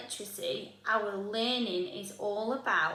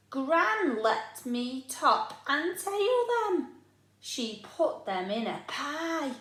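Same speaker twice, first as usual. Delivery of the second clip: put-on eager child Oliver; 3 semitones higher, 3 dB louder, slower than usual. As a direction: tell it like a proud little boy. Oliver boasting of Grandpa's.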